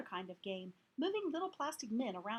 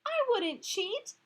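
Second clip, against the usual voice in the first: slow, loud, high insistence; defensive; 11 semitones higher, 8 dB louder, slower than usual. Acted. Heidi insisting she would not cheat, loud and slow. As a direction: drag it out, wounded.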